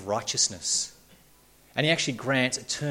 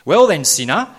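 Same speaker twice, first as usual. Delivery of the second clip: louder accusing "Well then, sinner"; the law of God; 6 semitones higher, 9 dB louder than usual. Acted. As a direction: call him out like a judge. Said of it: "says the law of God".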